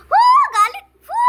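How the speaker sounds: high laughing yell of Oh, galit!; laughing shout. Real, not acted. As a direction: shriek it with laughter. (tawang sigaw)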